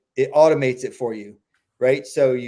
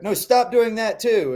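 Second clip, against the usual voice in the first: exasperated owner; 8 semitones higher, slower than usual. Retold or imitated. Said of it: "And you're like".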